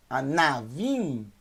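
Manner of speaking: anavim slowly, with a clear open 'na'. Shown as a demonstration. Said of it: "O na tem que ser agudo".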